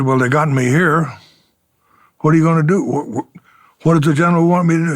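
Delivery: mildly indignant, pressing for an answer; mildly irate. Retold or imitated. Young officer demanding answers from the lieutenant, mildly irate. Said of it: "I'm getting a little irate now".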